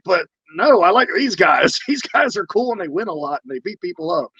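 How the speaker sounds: a hint of a pleading kid. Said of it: "I was like".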